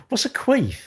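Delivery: slow, unvoiced whisper through a laugh. Real, not acted. Whispers the odd chat word back, laughing. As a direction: breathe the question out, amused.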